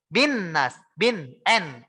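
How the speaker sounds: "Bin nas", "bin" with a clear held N; nun terdengar jelas. Shown as a demonstration. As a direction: sound the N of "bin" fully. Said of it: "bunyi nunnya terdengar jelas". ("bin" dengan bunyi nun jelas)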